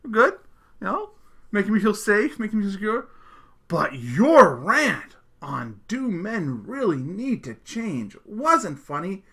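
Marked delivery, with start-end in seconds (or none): 3.7-9.2 reading out a shouted complaint, drawn out slowly; mock outraged reading; mock yell. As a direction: stretch it out like an angry all-caps email. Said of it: "She yelled".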